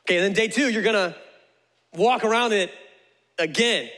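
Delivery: spaced-out dictation with pauses; patient, measured instructions; slowed down. Acted. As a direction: lay it out step by step for a note-taker. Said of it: "let me slow it down for you".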